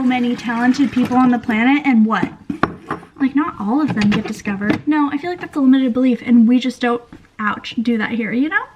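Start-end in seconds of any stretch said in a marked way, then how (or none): 6.2-8.6 talking through hiccups; hiccuping mid-sentence. Real, not acted. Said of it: "Ouch, still hiccuping".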